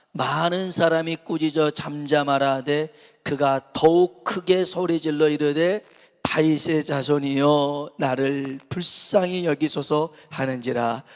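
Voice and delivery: slow, loud, measured reading of the verse; scripture reading. Real, not acted. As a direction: read the Bible text out slowly. Reads scripture aloud.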